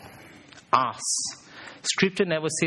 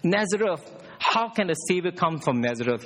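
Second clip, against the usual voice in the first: high incredulous You know what; mock sceptical disciple, pitched up; doubting scoff; 3 semitones higher than usual. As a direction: scoff at Nazareth. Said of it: "Nathanael doubted".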